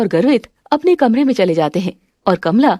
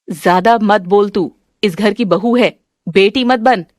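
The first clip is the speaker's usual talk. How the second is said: stern mother-in-law, scolding. Acted. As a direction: put the daughter-in-law in her place.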